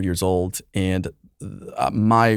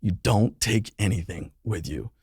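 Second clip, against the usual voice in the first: tearful quote. Retold or imitated. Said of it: "she's just in tears".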